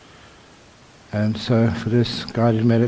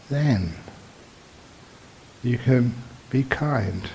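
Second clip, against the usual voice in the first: measured meditation teacher, long pauses between phrases; guided meditation. Real, not acted. Teacher guiding meditators into awareness of the body, measured and unhurried. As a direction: guide them gently, phrase by phrase, leaving silences.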